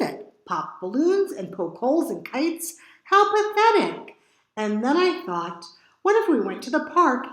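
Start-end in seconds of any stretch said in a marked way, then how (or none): 3.0-4.2 high, scoffing disbelief; scornful. A narrator's reading. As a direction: sneer at it. Scoffing at rhino's skills.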